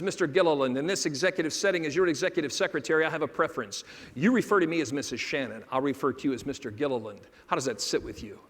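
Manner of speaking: low, restrained secretary quote; soft-spoken, respectful. Retold or imitated. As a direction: lightly mimic a softly spoken, very respectful secretary. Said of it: "soft-spoken and very respectful".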